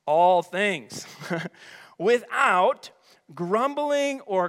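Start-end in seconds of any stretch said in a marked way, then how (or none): 0.0-1.1 "all" stretched and pushed louder; stress on ALL. Real, not acted. Preacher defining all things for the church, stress on ALL. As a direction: lean hard on "all", falling away on "things". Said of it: "You can circle that word all".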